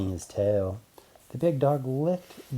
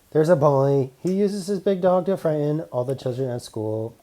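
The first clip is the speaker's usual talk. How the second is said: robot man voice; 4 semitones higher, 5 dB louder than usual. Acted.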